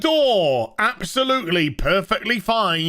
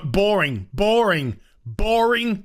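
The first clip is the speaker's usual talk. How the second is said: building complaint. Real, not acted. Ranting about the episode.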